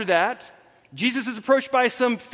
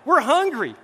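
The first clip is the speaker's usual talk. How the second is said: mock-panicked disciples, pitched up; freaking out; 5 semitones higher, 4 dB louder than usual. Hungry disciples fretting in the boat, mock freak-out. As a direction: act out a fretting, stressed-out complaint. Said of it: "they're freaking out".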